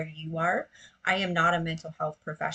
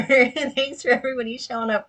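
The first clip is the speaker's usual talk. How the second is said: louder, higher thanks on a laugh; 6 semitones higher, 8 dB louder than usual. Real, not acted. Host thanks the whole inner committee, laughing. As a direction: laugh as you welcome the crowd.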